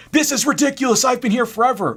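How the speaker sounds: high-pitched, loud mock outrage; outraged customer. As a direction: imitate a customer throwing a fit. Retold outburst of angry customer.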